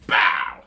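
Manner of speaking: low imitated door-kick boom; door kick bang. Telling the ex story, the door kick boom. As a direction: mimic the door being kicked in. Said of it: "Like Jackie Chan".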